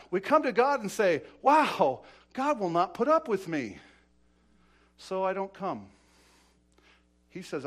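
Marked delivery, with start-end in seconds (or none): 1.4-5.9 loud imitation of an awed sinner; mock dismay. Imitating a sinner before God, loudly dismayed. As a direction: play the overwhelmed sinner in a raised preaching voice. Voices the fearful sinner's thought.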